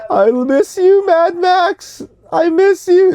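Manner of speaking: high, mock-wailing cry for Mad Max; hammed-up lament. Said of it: "is that what you wanted".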